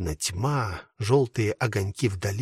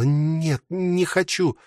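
higher, pleading moan; desperate moan; 5 semitones higher, much slower than usual. A narrator's reading. Dasha refusing to flee with Telegin, desperate moan. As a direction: moan it out in despair. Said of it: "отчаянно простонала".

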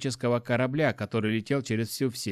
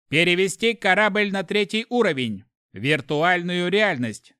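raised, louder detached machine voice; icy ship computer; 6 semitones higher, 5 dB louder than usual. A narrator's reading. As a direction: answer like an unfeeling AI.

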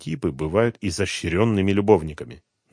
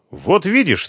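smug, pleased, a touch higher; 11 semitones higher, 7 dB louder, slower than usual. A narrator's reading. Young woman shows off to Dronго, pleased. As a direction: savour the moment. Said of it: "с удовольствием сказала Аля".

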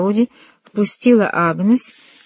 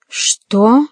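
a startled gasping question, a little higher; gasped what; 4 semitones higher, 4 dB louder than usual. A narrator's reading. Mother gasping at the news, startled. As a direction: gasp it out in shock. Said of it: "ахнула мама".

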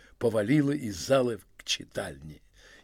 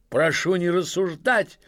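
shout with all his strength; 5 semitones higher, 3 dB louder than usual. Acted. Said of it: "крикнул изо всей силы".

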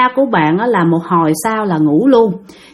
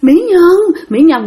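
lightly voiced ghostly man calling her, pitched up; creepy ghost man; 7 semitones higher, slower than usual. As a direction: imitate an eerie male spirit's call. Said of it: "cái giọng nói thấy ghê lắm các bạn, nó ồn ồn".

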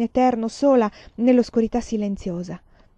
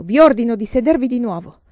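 loud but more contained order; controlled command; 4 semitones higher, 8 dB louder than usual. A narrator's reading. Man orders the nun back to her seat, controlled. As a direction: rein in the shout, still commanding. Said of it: "e poi più controllato".

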